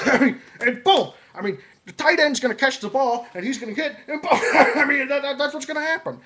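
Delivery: excited, loud rambling commentator; John Madden. Acted. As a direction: gush about the players with a laugh. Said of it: "next one is John Madden".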